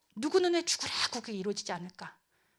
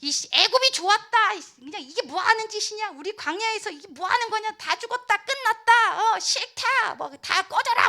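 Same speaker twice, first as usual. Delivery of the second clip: high, heated grumbling rant; acted angry outburst; resentful complaining; 10 semitones higher, 5 dB louder than usual. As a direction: rail bitterly at the whole journey. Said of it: "원망하고 불평하고".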